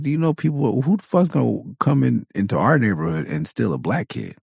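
high scoffing disbelief, settling down at the end; incredulous dad. Retold or imitated. Father scoffing at his child's kidnapping dream. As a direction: talk down the kid's fear in a high mock voice. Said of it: "I was like".

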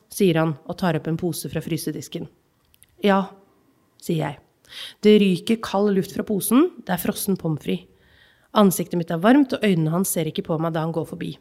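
measured reading of a literary excerpt; calm, even narration of a childhood memory; story reading. Acted. Reads novel excerpt aloud.

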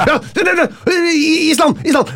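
very high, eager shouted answer "Island!"; excited quiz shout. Retold or imitated. Fan shows how he shouts quiz answers from his chair, excitedly. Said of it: "Jeg sitter sånn i stolen hjemme".

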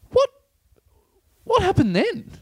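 high voice cracking with laughter; laughing cop. Retold or imitated. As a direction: try to ask while laughing.

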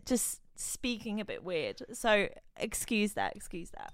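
careful speech, sore tongue; with a mouth ulcer. Real, not acted. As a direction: talk around a tongue ulcer. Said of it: "I have this ulcer on my tongue".

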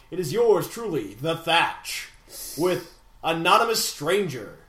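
slow, grand standings announcement; mock-epic, stretched-out ring announcer. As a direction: boom out each place like a title fight. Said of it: "That was way too epic".

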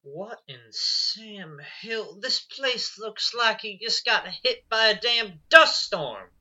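slow, drawn-out mild astonishment; a hint of old-west drawl; cowboy exclamation.

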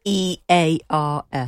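drawn-out royal "E A R S" for yes; the Queen's posh yes. Retold or imitated. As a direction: say "E A R S" slowly like the Queen saying yes. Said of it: "how was it that the Queen used to say yes?".

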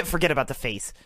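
low, dropped mock dude voice; mocking bro voice. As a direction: parrot him like a dumb bro. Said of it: "You're such a dude".

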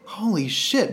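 stunned, whispered disbelief; amazed whisper. Acted. Reacting to a bad pickup line working, amazed whisper. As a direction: whisper it in mock astonishment.

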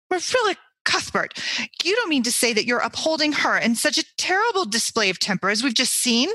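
high indignant outburst at Marilla; indignant demand. Acted. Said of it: "demanded Missus Rachel indignantly".

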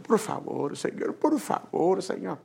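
slow, drawn-out begging; mock weepy appeal; imitated tearful plea. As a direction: plead as if crying, mildly acted. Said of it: "el Señor nos ve llorando".

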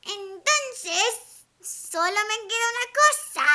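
witch voice. Acted. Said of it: "dijo la bruja".

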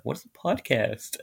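slow, lightly mimicked puzzled dad; imitating dad. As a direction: draw out a clueless dad's question. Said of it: "how he was like".

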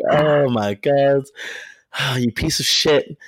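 slow, drawn-out retold swoon; melting. Storyteller replaying reaction to the crush's kiss, melting. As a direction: stretch it out with a sigh, half cursing him. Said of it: "I just melted".

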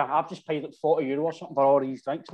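usual speaking voice

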